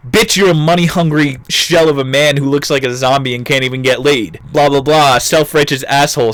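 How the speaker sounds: mock snarky rant; going off. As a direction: go off on the boss in a string of insults. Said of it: "So Anthony just went off".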